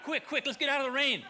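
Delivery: loud, high, laughing, hurry everyone; laughing mock panic. Pastor retelling the crowd fleeing light rain, loud laughing mock panic. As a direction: play up a mock panic over a drizzle.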